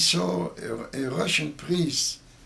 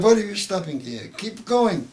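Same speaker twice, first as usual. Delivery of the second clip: commander's order; 6 semitones higher, 7 dB louder than usual. Retold or imitated. Commanding officer orders them on.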